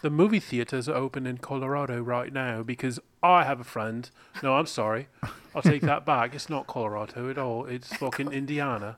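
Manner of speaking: loose, put-on British accent; vaguely British, not quite placeable; accidental British accent. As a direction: slip into a rough British accent. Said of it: "which accent is this".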